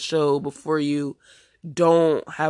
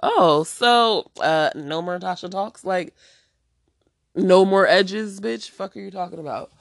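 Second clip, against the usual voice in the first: mocking shady askers; 3 semitones higher, 4 dB louder than usual. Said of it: "shady and asking".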